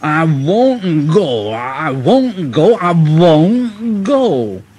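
very slow grumbling, dragging every word. Narrator reading Gordon's line as he's pushed onto the turntable: Gordon grumbling. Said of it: "Gordon grumbled like anything".

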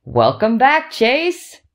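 high, swooping exclamation on welcome back. A doctor bursts into the room and greets Chase in his bed: exclaiming. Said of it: "he exclaims".

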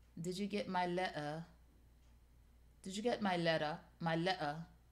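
attempted put-on British accent. Pretending a pillow is Idris Elba talking: attempted British accent as Idris Elba. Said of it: "I don't know how to do a British accent".

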